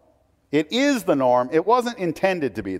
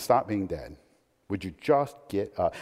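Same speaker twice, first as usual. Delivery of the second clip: casual; 7 semitones lower, 6 dB quieter than usual. Pretend. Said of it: "because of the way I just said that".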